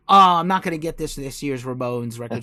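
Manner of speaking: put-on emphatic refusal, starting big; mock protest. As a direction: declare it loudly like a vow you will break. Acts out his yearly resolve.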